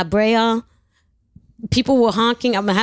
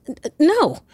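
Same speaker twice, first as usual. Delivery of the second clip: stuttered no, pitched up about six semitones; stammered refusal; 6 semitones higher than usual. Retold or imitated. Refusing a friend's price, stuttered high no. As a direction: stumble over the refusal. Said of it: "I said".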